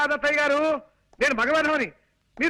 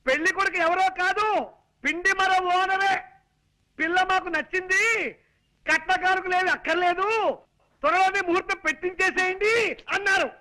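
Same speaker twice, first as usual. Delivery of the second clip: higher, exaggerated big news delivery; hammed-up excited; 4 semitones higher than usual. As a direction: overact the news for a deaf mother-in-law. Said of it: "ఇలా కాళ్ళు చేతులు ఊపుతూ హైరాణ పడాలా". (ఉత్సాహంగా హడావిడి)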